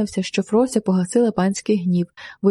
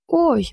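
his hand is crushed, cry out; frantic cry of pain; 6 semitones higher than usual. A narrator's reading. Steward yelps as his wrist bones crack, frantic pained cry. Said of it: "несамовито скрикнув ключник".

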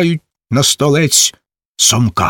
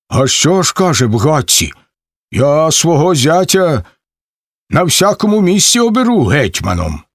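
slightly raised, defiant answer; stubborn reply; 4 semitones higher than usual. Acted. Cherevan answers the Zaporozhians, lightly defiant. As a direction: stand your ground, a bit lisping.

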